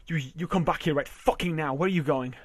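loud, demanding call; shouting after her. Acted. Husband shouting at his wife walking away. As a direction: yell after her as she leaves.

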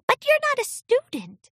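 high, timid little filly. A narrator's reading. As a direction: whisper it nervously. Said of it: "Flora whispered timidly".

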